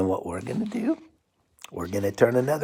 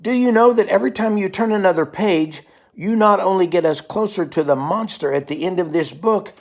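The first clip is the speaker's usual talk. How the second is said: much higher and louder fretful monster voice; Grover voice; 9 semitones higher, 4 dB louder than usual. Acted. Parent as Grover warning Leo, high and loud. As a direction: squeak it up high and worried, pushing harder at the end. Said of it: "He says".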